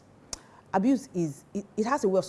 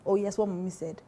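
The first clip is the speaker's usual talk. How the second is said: put-on mommy's boy quote; 3 semitones higher than usual. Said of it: "And then he says".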